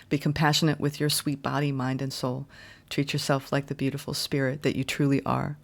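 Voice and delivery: soft, tender oracle reading voice, trailing ends; channeled card message. Acted. Reader channels Star Mother's message to viewers, tender and hushed. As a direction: soothe the viewer like a mother comforting her child.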